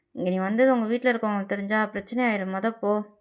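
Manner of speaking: a lightly voiced gentle but firm lover; Jungkook.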